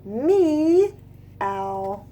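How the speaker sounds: drawn-out soft meow; cat meow. Acted. Teacher showing the kids what the cats say, soft meow. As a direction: coax out a gentle cat sound. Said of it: "Do you?".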